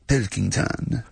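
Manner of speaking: a lightly voiced Frenchman, Nero giving orders; French accent. Host voicing Nero in a lightly put-on French accent. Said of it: "I don't know why he's French".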